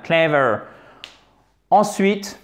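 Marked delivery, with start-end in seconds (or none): 0.0-0.6 clever with CLE hit, then falling; stress on first syllable. Shown as a demonstration. Teacher points out the stress, CLE-ver. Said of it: "sur la première syllabe".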